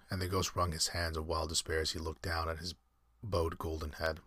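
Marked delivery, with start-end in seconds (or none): 3.2-4.2 "bowed" said like "bode"; mispronounced bowed. Shown as a demonstration. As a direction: say "bowed" with a long o, rhyming with road. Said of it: "Bowed golden head, I should say".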